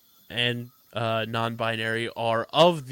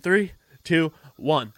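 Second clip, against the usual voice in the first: countdown; 5 semitones higher, 5 dB louder, slower than usual. Acted. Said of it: "counting down the show".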